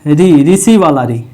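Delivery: री as in ऋषि, slowed, the vowel ऋ said री; slow ri sound. Shown as a demonstration. Teacher to pupils, slowly showing the ऋ sound. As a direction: draw out री like the start of ऋषि. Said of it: "कौन सा".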